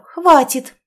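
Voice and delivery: hammed-up angry hiss; furious outburst. A narrator's reading. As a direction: cut him off in anger. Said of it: "прошипела она".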